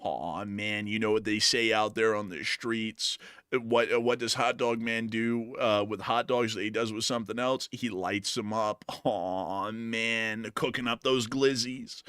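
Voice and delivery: hammed-up gloomy groan; sad-sack fly. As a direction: moan like a defeated fly. Fly voice held.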